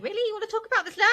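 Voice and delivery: high incredulous quote. Retold or imitated. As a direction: act caught off guard. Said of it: "Late's like".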